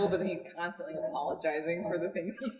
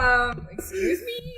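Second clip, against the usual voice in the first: high, loud mock-offended "excuse me"; put-upon and indignant, hammed up; offended woman; 12 semitones higher, 4 dB louder, slower than usual. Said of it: "And he'd be like".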